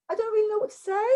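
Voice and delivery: unsure, high-pitched delivery lifting at the end of "say"; questioning upward inflection. Shown as a demonstration. Coach demonstrates what to avoid in public speaking, questioning upward inflection on "say". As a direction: turn "I don't really know what to say" into a wavering question. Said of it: "when your inflection goes up at the end".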